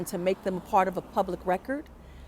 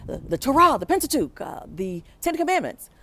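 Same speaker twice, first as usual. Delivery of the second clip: higher, louder called-out answer; class yelling out; 8 semitones higher, 3 dB louder than usual. Retold or imitated. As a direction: call the answer out across the classroom. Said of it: "we yell out".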